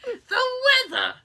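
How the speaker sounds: high, hammed-up Boston accent; a Boston mom dropping R's; mock Boston mom accent. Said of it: "Your mom would be like".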